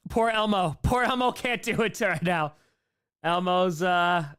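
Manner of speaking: high, loud, straining Elmo voice; failing Elmo impression, voice cracking up high; Elmo voice attempt. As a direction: squeak it out like Elmo as the voice gives way. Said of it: "let's bring this back to Elmo's voice".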